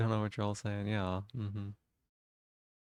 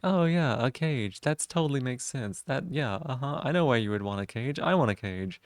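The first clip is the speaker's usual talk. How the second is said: mocking impression; 2 semitones higher than usual. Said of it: "That's what all the puppy-pilled people are like".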